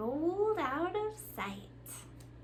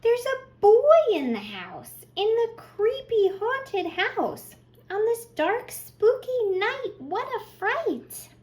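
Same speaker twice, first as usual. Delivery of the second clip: higher, louder, thrilled climax; excited build; 9 semitones higher, 8 dB louder than usual. Acted. Librarian reading the story's climax to children, higher and louder. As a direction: raise it up like the scary reveal.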